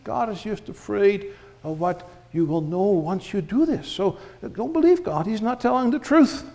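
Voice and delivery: a hint of a sly serpent; devil voice. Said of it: "He said".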